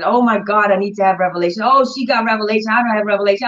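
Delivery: rattled-off, mildly mocking imitation of worriers; mock fretting. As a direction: parody their fuss in one quick run. Mocking people fussing over revelation.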